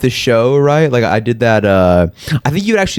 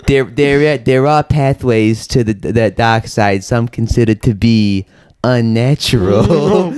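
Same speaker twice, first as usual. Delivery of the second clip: Palpatine impression; slower than usual. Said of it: "just Palpatine".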